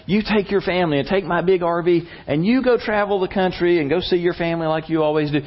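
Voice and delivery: mildly urgent retold insistence; insistent friend. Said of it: "who insisted when it was his vacation time".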